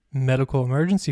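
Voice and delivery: lightly stressed "Medical emergency"; "Medical emergency" pointedly set out. A narrator's reading. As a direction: give "Medical emergency" deliberate, measured weight. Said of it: "stressing the words, "medical emergency".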